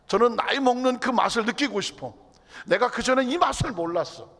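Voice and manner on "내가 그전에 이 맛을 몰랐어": ordinary talk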